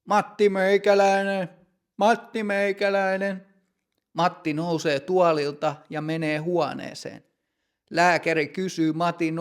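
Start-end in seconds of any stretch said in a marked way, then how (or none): 0.1-3.5 raised, higher call across the room; calling out a name. Acted. Doctor calls the patient from the waiting room, raised call. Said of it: "huutaa Matin nimeä".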